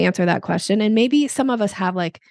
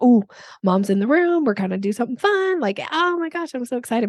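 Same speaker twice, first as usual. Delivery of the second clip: higher, bubbly voice of a thrilled dog; excited dog; 4 semitones higher than usual. Pretend. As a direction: play the dog who can't contain itself. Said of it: "dogs really respond to that energy".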